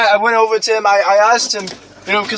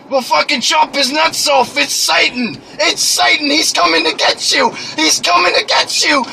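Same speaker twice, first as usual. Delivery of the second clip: high frantic mock shout; hammed-up hysterical yell; mom yelling; 5 semitones higher than usual. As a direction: scream the warning like a panicked mom.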